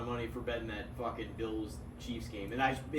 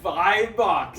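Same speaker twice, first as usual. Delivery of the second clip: surprised; 3 semitones higher, 7 dB louder than usual. Real, not acted. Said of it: "He's feeling confident".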